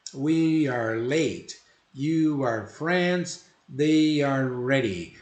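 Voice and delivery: slow, clear example sentences; slow model reading. Shown as a demonstration. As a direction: read each one slowly for them to hear. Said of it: "model sentences read slowly".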